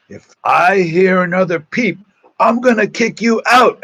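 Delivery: high, loud stern warning; loud strict threat to the dorm kids; retold threat.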